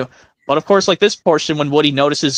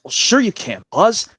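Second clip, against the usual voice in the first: Woody voice; 5 semitones higher than usual. Acted. Woody voice continuing the scene.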